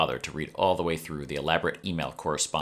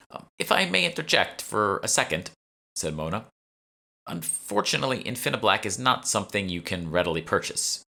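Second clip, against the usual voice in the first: much higher, careful interruption; polite curator interjecting; 5 semitones higher than usual. A narrator's reading. Curator Mona correcting Emma, high polite voice. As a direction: cut in politely.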